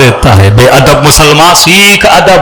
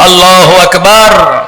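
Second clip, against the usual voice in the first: slow, stretched "اللہ اکبر" with a mild lift; a first, measured call of "اللہ اکبر"; drawn-out call of Allahu Akbar; 3 semitones higher, much slower than usual. Acted. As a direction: draw out "اکبر" like a distant cry. Slave calls out on seeing someone.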